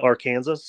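"Arkansas" said like "ar-KANZ-us", questioning; Kansas-style pronunciation. Shown as a demonstration. Friend checks the banned way to say the state, Kansas-style. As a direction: say "Arkansas" with "Kansas" in it, final s sounded. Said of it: "must pronounce Arkansas's correctly".

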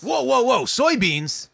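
loud high mock shock; whoa, can't believe it. Shocked reaction to soybeans.

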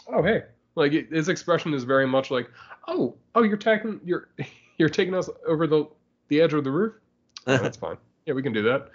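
high, carefree mock nonchalance; cavalier. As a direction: toss it off like nothing's wrong. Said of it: "very cavalier about it".

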